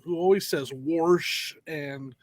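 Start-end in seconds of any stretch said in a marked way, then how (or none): 0.7-1.5 "warsh" with an R slipped in before the sh; accented "warsh". Retold or imitated. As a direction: say "warsh" for wash, imitating her accent. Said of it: "who has this accent".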